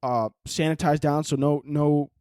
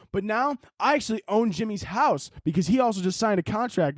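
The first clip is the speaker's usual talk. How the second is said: mock vlogger monologue; 7 semitones higher than usual. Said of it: "He's like".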